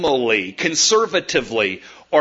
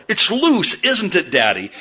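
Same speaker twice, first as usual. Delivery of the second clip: put-on little girl voice; 4 semitones higher than usual.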